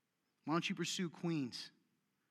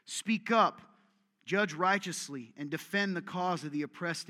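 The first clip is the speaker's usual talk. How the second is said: loud preaching; 4 dB louder than usual. Acted. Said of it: "preaching the verse".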